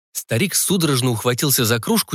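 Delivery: usual speaking voice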